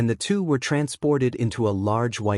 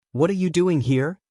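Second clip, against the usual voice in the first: angry roar; 6 semitones higher than usual. A narrator's reading. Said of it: "Kyuubi roared in anger".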